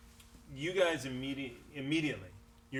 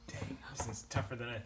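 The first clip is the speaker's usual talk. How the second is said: whispered aside; 6 dB quieter than usual. Real, not acted. GM mutters to himself.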